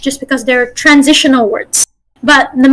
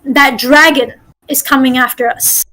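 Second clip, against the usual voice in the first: flowing line, "dragon" emphasized, "us" lengthened; natural emphasis. Shown as a demonstration. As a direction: smoothly stress "dragon" and draw out "us". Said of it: "I emphasize dragon and I draw the us".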